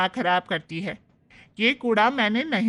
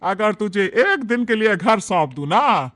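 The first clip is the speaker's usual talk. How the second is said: furious mother scolding her son, louder; angry scolding; 6 dB louder than usual. Acted. Mother-in-law Shobhna scolds her son Raman, louder and furious. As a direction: snap at a useless son. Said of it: "गुस्से से तिलमिला उठती है".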